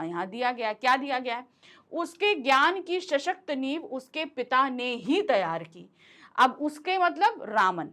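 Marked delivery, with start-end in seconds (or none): 1.9-5.9 पिता ने ही given the weight; read-out example stressing पिता. Shown as a demonstration. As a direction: lean on पिता ने ही. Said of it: "अब हम यहाँ पर पिता के ऊपर जोर दे रहे हैं".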